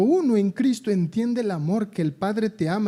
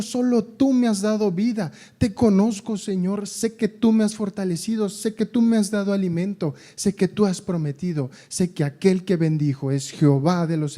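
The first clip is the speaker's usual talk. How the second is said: Peter's confession. Acted.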